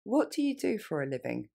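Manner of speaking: natural running pace. Shown as a demonstration. Teacher modeling natural speed for learners. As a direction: let the words flow together. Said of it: "Plus rapidement".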